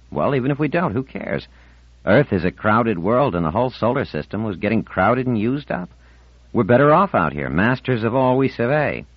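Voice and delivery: lightly voiced boy, dismissive then grand; a hint of boyish boasting; breezy Ornell. Boy brushes off Marlena's talk of going back, lightly breezy.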